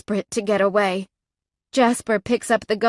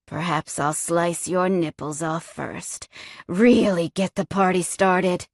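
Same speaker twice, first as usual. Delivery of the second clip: menacing villain; 3 semitones lower than usual. Acted. Villain threatens his captive.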